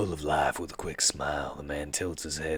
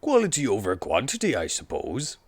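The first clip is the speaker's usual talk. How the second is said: higher, louder amused woman; laughing Jessica; 9 semitones higher, 12 dB louder than usual. Acted. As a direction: laugh through the words.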